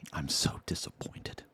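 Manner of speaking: hushed, mock-tragic murmur; mock whisper. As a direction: whisper it like a fake lament. Mock-mourning the chat's decline.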